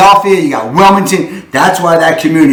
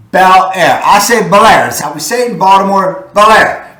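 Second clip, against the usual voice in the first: local Baltimore way of saying Bel Air; Baltimore accent; 2 semitones higher than usual. Shown as a demonstration. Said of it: "That's my Baltimore accent".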